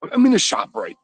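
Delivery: high, loud shout over store noise; shouting in the shop. Real, not acted. Caller shouting from the shop floor, loud and high. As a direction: yell it down the aisle. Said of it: "I'm screaming all over the aisles".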